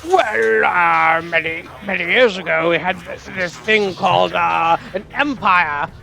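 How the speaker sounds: put-on swooping, halting English toff accent; controversial English accent. Mocking England over its lost empire, pompous English accent. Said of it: "wasn't the English accent I was gonna do".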